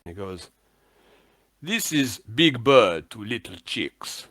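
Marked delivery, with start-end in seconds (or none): 1.6-4.3 slow, deliberate radio-contact voice; measured call sign with swooping falls; Big Bird. Acted. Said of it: "the voice comes over the Vox".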